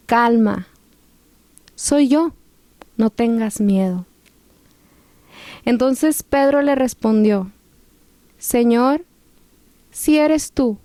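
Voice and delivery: measured scripture reading with pauses; lectura bíblica. A narrator's reading. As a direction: read the passage aloud, phrase by phrase. Reads a Bible passage. (lectura bíblica pausada)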